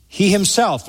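stressed "He himself", set apart by a pause; emphatic stress. Shown as a demonstration. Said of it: "he himself emphatically".

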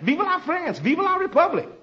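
a mock patriotic French cheer. Shown as a demonstration. Teacher showing how the French yell it, a high mock cheer. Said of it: "The French always yells that".

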